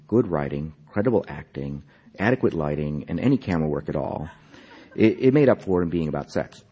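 measured literary reading, phrase by phrase; story narration. A narrator's reading. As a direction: read the story aloud with deliberate, lifted phrasing. Reads own story aloud.

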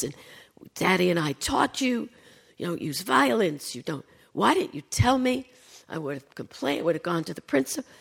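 a mild mock scolding, rising in pitch toward the end; scolding mother. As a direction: lightly act out a mother giving her daughter a telling-off. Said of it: "giving me the whole".

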